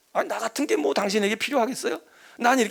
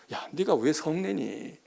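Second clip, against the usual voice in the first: gentle coaxing; 3 semitones lower, 5 dB quieter, slower than usual. Acted. God voiced gently asking Jonah.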